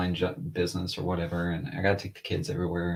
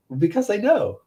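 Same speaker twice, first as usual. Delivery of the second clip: imitating small son; 12 semitones higher, 4 dB louder than usual. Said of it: "he goes".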